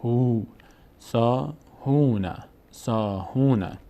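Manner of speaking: سا، هونه with held "saa" and "hoo"; long vowels. Shown as a demonstration. Teacher showing alef and waw sounds, long vowels. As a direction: stretch the aa of سا and oo of هونه. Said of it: "صدای او".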